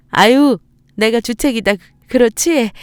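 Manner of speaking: embarrassed mother half laughing; flustered laugh. Acted. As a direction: brush off her own tears with a laugh. Mother embarrassed by her tears.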